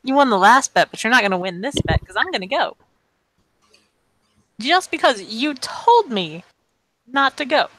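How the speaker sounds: little high-pitched, defiant voice; Cece. Acted. Defiant girl answering a bet, little high-pitched voice. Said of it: "In her little high-pitched voice".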